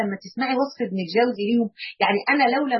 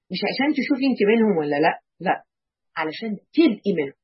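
ordinary talk, nothing marked

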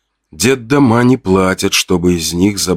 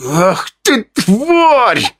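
much higher, strained breath-out of rage; exhaled curse; 13 semitones higher, much slower than usual. Acted. Fedya, tired of fighting silently, gasps an insult at the narrator. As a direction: spit the insult out on one breath. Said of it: "выдохнул Федя".

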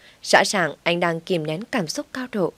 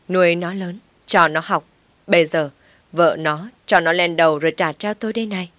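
fast, louder wail of "Ôi trời ơi là trời"; 4 dB louder than usual. Acted. Mother-in-law wailing even louder at her son. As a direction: outdo her earlier cry of "Ôi trời ơi là trời". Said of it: "Bà Tâm lại gào to hơn".

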